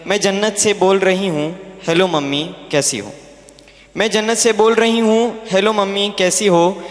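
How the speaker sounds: measured, rhythmic Urdu verse recital; poem recitation. Acted. Unborn daughter phones her mother from heaven, poem recitation. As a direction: recite it line by line in cadence, with lifted openings and falling closes.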